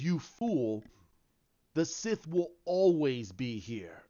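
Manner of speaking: lightly voiced menacing villain, slow; a slow, hint-of-sinister taunt from a fallen villain. Villain Snoke's retold taunt.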